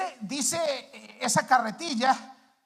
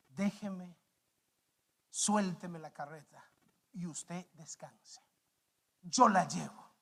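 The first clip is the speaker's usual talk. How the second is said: calm offer; 6 semitones lower, 5 dB quieter than usual. Acted. Strong helper's gentle offer, story.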